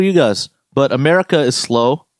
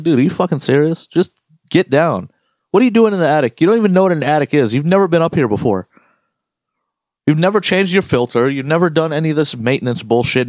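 raised pitch, mock-indignant telling-off; acted exasperated scolding; 3 semitones higher than usual. Technician to customer following him into the attic, exasperated. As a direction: scold an intruder in mock disbelief.

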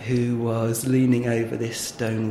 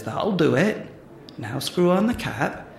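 lightly voiced, higher country farmer accent; amateur rustic farmer accent; 5 semitones higher than usual. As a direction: instruct in a put-on farmer accent. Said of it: "I'm really sorry about the accent".

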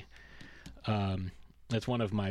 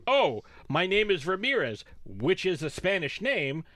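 higher-pitched, hammed-up indignation; mock indignant; 4 semitones higher than usual. Host imitates Ramirez giving his name, mock indignant. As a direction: retell it as an affronted character. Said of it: "he gets so indignant".

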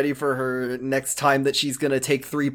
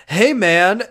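higher-pitched, overfriendly RA greeting; chummy RA; 4 semitones higher, 4 dB louder than usual. Retold or imitated. Cassidy greeting Mark like his RA, chummy. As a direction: greet him like an eager dorm advisor. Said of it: "talks to Mark like he's his fucking R A".

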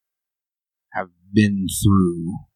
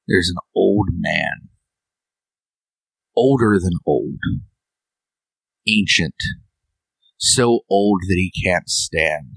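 game master narration. Acted. Game master sets the scene.

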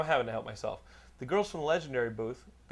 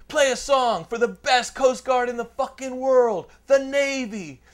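put-on high, loud, slow drunken bellow; a drunk sailor's bragging shout; drunk sailor yelling; 9 semitones higher, 7 dB louder, slower than usual. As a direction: yell it out like a rowdy sailor at a bar. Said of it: "this guy's like".

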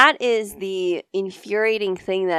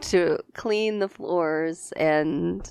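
storybook narration; much slower than usual. Pretend. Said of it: "Tell me about Cinderella".

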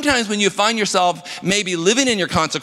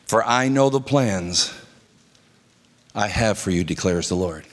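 solemn Bible reading, lower and unhurried; scripture reading; 7 semitones lower than usual. Shown as a demonstration. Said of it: "Jeremiah chapter twenty-nine, verse eleven".

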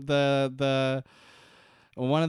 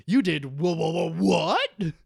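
stunned stammer; 4 semitones higher, 5 dB louder than usual. Retold or imitated. Leatherman's shocked reaction.

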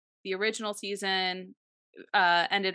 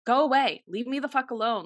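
retold angry yell; 5 semitones higher, 4 dB louder than usual. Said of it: "Katie is just like".

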